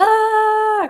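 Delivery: screaming in character. Voicing a character left behind by a giant walking dinosaur: screaming in character. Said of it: "Desmond is just gonna start screaming".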